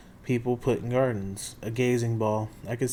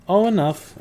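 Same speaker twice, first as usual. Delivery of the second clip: put-on high, loud sweet old woman; old lady voice; 8 semitones higher, 9 dB louder than usual. Auntie Em brushing off Percy, high and sweet. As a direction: chirp it up like a fussy grandmother.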